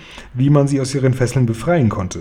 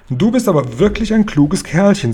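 a much higher, fond queen voice; queen praising; 7 semitones higher than usual. Acted. The queen praises the tall Guri, a high fond voice. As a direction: praise him like a gracious queen. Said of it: "sagte die Königin".

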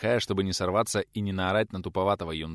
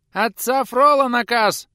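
put-on much higher, louder, slow shrieking boy; squeaky yell; 12 dB louder, slower than usual. A narrator's reading. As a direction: shout it from the yard. Youth yelling from yard.

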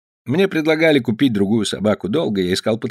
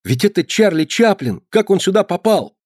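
amazed; 9 semitones higher than usual. A narrator's reading. Fred amazed at Chaplin lookalike.

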